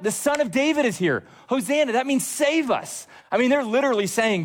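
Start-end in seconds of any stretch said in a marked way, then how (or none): 0.0-1.9 high-pitched imitation of a shout, no added volume; crowd shouting out. Preacher voicing the crowd greeting the king, high mock shout. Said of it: "They're shouting out". 2.3-3.1 crowd shouting out. Retold or imitated. Preacher voicing the crowd's plea, high mock shout. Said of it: "They're shouting out".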